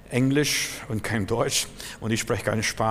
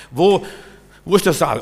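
loud, higher repeated cry; calling out; 6 semitones higher, 9 dB louder than usual. Real, not acted. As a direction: shout the question again. Preacher repeats rhetorical call.

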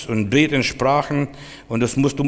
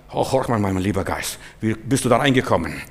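soft, lowered, coaxing address; mock-gentle chat; 5 semitones lower, 4 dB quieter than usual. Preacher mimicking a timid talk to a spirit, mock-gentle. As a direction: speak gently, as if humouring someone. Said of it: "Und gesagt".

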